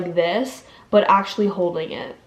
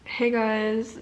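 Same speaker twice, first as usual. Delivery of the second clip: lips open talk; 5 dB quieter than usual. Shown as a demonstration. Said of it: "What if my lips never close and I just talk like this?".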